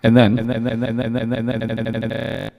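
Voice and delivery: chopped stuttering sliced voice; glitchy cut-up repeats; scatter effect. Shown as a demonstration. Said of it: "this is called a scatter effect".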